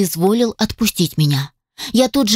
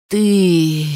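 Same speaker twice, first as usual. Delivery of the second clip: growled. A narrator's reading. Angry man wakes and growls at the girl. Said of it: "прорычал он".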